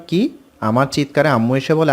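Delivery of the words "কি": a mock startled shout; surprised shout. Girl hearing she got in, surprised shout. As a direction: blurt it out in shock. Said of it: "চিৎকার করে বলে উঠলাম".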